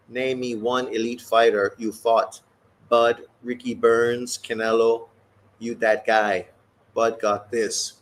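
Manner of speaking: lightly voiced boxer, slow and cocky; a hint of a taunting fighter; Canelo voice. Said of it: "Canelo's voice".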